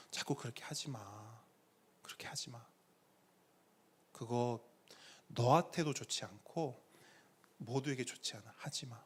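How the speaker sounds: very soft, low admonishing; gently chide, almost under the breath; hushed fatherly reproof. Retold or imitated. God correcting the preacher in private, hushed fatherly reproof. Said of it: "제가 직접 하나님께 훈육받은 내용을 지금 그대로".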